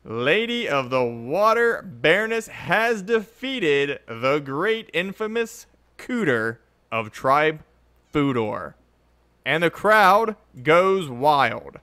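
slow drawn-out winner announcement; ring announcer. Pretend. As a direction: draw out every word like a ring announcer.

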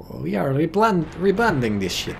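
put-on halting second try at a Russian accent; hammed-up attempt at a Soviet accent. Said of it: "Sorry, I gotta fix that".

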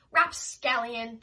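loud, slow cry of Rapscallion!. A narrator's reading. Old neighbour shouting after the fleeing cat, loud. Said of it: "she cried".

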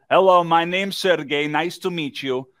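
lightly imitated Russian accent; a touch of mock Russian. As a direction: introduce yourself as the big Russian visitor, accent put on. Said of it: "And he goes".

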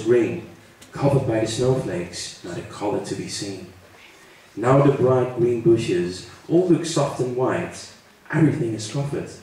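evenly paced nature poem reading; poem recitation. Acted. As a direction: recite in measured lines, pausing after each. Leest een Engels gedicht voor. (gedicht rustig voorlezen)

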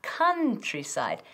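Countryside said slowly, first vowel like Spanish A, kantrisaid; Countryside with an A sound. Shown as a demonstration. Teacher showing students how to say it, slow and clear. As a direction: stretch out Countryside, open A in the first syllable. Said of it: "hay que decirlo casi como una A".

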